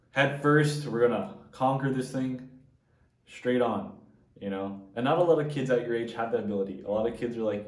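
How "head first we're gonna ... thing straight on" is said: voicing a bold kid, louder and higher; rally the charge head first; determined. Voicing the boy's fearless attitude.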